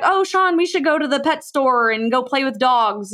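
high, eager "Oh, Sean" pleading with husband. Retold or imitated. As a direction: wheedle him into a pet store trip. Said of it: "I was just like".

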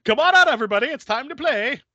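gleeful taunt up the stairs; taunting sing-song. Retold or imitated. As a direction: call them out like a game. Collector taunting.

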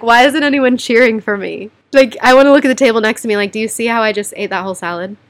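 hammed-up look-at-me brag; mock cheering demand. Joking to viewers about wanting praise for finishing food, mock excited.

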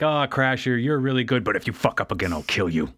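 lightly voiced villain, dropping low into the threat; menacing villain boss. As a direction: praise the henchman, then sink low for the threat. Psykill threatens his underling.

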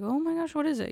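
wide-eyed nervous curiosity; high pitched surprised reaction; mock surprise. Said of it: "And I was like".

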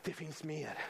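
soft, low, understated statement; hushed promise. Real, not acted. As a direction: drop right down and say it quietly. Soft first take before the build.

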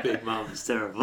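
put-on southern black accent. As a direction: play a sassy big mama. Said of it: "in her big mama voice".

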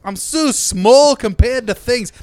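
very high, loud squeaky little-man voice; tiny Colin Farrell. Pretend. Mocking Colin Farrell as a tiny man, high squeaky voice. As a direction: play a tiny man dwarfed by everything.

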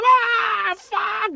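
very high mock wail; imitated crying fit. Brother learns he's colorblind and can't be a pilot, imitated wailing. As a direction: wail like a boy whose dream just died, hammed-up. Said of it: "he starts crying, he starts bitching".

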